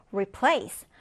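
"replace" stressed on its second syllable, -PLACE. Shown as a demonstration. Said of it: "두 번째 음절에 강세를 두고".

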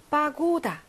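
바고다 with a long, stressed 고. Shown as a demonstration. Teacher marking stress for students, 바고다 stressed on 고. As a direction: stretch the 고 in 바고다. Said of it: "강세 있고요".

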